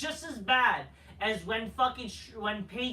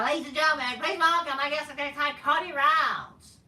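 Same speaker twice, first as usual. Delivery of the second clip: announcer voice; 3 semitones higher, 5 dB louder than usual. Retold or imitated. Vlogger mimics the arena announcer introducing Cody, booming announcer voice. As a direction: boom out the name like a ring announcer.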